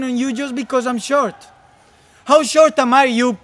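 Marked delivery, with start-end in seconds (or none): 2.2-3.4 louder, angrier repeat; rising indignant demand; angry demand. Acted. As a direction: push the question harder.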